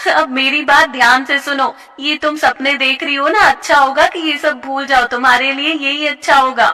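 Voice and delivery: taunting bully. Acted. A bully sneering at a dancing classmate. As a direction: crush her hopes with scorn. Jyoti warning Prerna.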